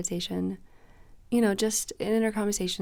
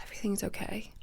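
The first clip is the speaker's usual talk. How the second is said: whispered self-reassurance; 5 dB quieter than usual. Real, not acted. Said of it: "until I started to really be like".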